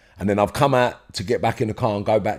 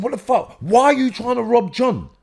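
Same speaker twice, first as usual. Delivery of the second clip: retold accusation; 13 semitones higher, 3 dB louder than usual. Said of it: "He said".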